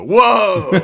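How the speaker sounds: very loud, high-pitched whoop; Mikey. Retold or imitated. Imitating a turtle at the end of the fight, loud whoop. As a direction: let out a big cartoonish yell. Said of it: "you can clearly hear Mikey go".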